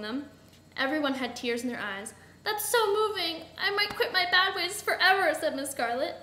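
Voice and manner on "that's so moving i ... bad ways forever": higher, louder gushing; theatrical repentant emotion; deeply moved. A narrator's reading. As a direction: gush as if touched. Villain moved to tears, repenting.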